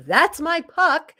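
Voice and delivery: yell. Retold or imitated. Retelling the yell that startled the kid, loud and slow. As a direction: yell it to claim the puck. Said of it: "when I yelled".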